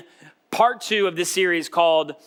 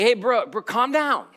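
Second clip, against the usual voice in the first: mock soothing; 4 semitones higher than usual. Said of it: "I'm like".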